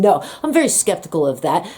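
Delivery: mock cold doctor, brisk and fast; unemotional. Doctor dismissing patient in front of students, mock cold and brisk. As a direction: imitate a doctor brushing it off quickly. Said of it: "ever so unemotional and absolutely not sympathetic".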